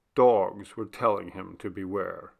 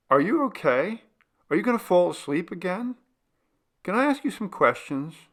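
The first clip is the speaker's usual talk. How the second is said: anxious Eric; 9 semitones higher, faster than usual. A narrator's reading. Eric voiced, anxious questioning.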